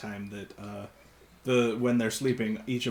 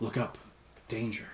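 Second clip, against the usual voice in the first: faint, small, soft whisper; 6 dB quieter than usual. Voicing a voice that the player character hears: small whisper. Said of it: "that small whisper again that says".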